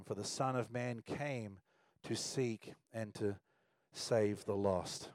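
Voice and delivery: measured, solemn Bible reading; scripture reading. Acted. Pastor reading Luke to the congregation, solemn.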